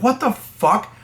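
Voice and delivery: retelling his own shocked outburst; retold disbelief. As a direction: fling it up high in disbelief. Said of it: "I'm like".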